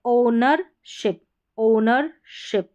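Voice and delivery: ओनरशिप slowly split as "o-ner, ship"; silent W. Shown as a demonstration. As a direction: say ओनरशिप with no w sound. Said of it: "ओ के बाद डब्ल्यू silent है".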